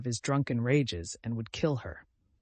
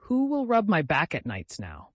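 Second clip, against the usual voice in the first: plaintive, raised self-pitying question; pathetic; 5 semitones higher, 5 dB louder than usual. A narrator's reading. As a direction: lament it with helpless self-pity. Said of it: "said Cousin Stickles pathetically".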